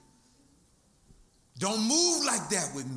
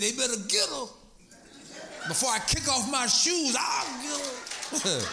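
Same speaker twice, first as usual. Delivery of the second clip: ladies threatening; 4 semitones higher than usual. Retold or imitated. Church ladies threatening the visitor.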